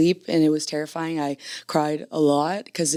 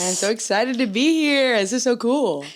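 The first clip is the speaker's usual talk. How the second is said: bright put-on British accent, higher; 6 semitones higher than usual. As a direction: greet them in a chirpy British accent. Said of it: "her, um, British accent".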